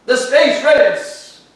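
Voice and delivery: slow, loud, high-flung proclamation; dramatic announcement. Acted. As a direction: drag it out like a movie trailer title. Teacher announcing dramatic topic.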